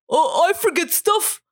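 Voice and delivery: a hint of a silly impression of the co-host; dumb voice of co-host. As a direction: lightly send up your forgetful co-host. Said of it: "I just do your voice different every time".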